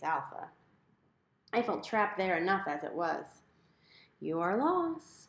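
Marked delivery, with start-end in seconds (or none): 4.2-5.3 chiding. A narrator's reading. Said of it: "Mom chided".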